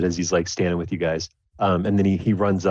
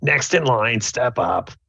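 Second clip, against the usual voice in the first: high, cartoon alien woman voice; 5 semitones higher than usual. Retelling a story about a ticket line, doing the Monsters, Inc. alien woman voice. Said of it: "the woman alien voice from Monsters Inc".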